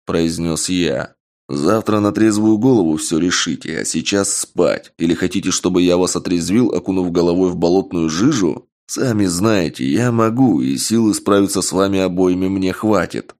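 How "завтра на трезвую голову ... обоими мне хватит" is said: stern. Acted. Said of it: "грозно произнёс я".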